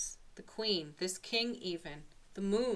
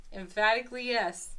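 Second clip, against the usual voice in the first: emphatic yes; 2 semitones higher, 6 dB louder than usual. Real, not acted.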